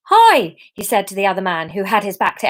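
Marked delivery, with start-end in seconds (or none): 0.1-0.6 loud, high-pitched Irish greeting; attempted Irish accent. Theo greeting the other man, loud attempted Irish. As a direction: call it out in a rough Irish accent. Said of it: "okay, Irish".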